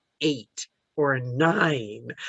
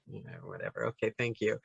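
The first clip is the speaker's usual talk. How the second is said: British understatement; 8 semitones lower, 12 dB quieter, faster than usual. Retold or imitated. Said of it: "in her British way".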